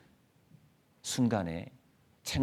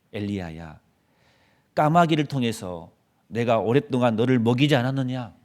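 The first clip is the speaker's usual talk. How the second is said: stern rebuke; 5 dB louder than usual. Pretend. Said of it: "저 같으면 그 책망했을 것 같아요".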